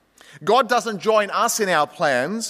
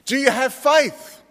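calm voice; 7 semitones higher, slower than usual. Acted. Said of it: "The calm voice".

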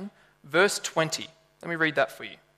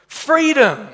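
mock impassioned cry, high and loud; a lightly hammed-up rallying cry; Mel in Braveheart; 9 semitones higher, 8 dB louder than usual. Preacher echoes the film hero's cry, mildly impassioned. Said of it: "the impassioned cry like Mel in Braveheart".

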